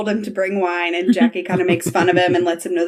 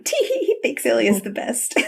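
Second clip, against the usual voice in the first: high, teasing little titter; girlish tee-hee, breaking into laughter; mock giggle; 5 semitones higher than usual. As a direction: giggle through it in a higher voice. Reads out own giggly note.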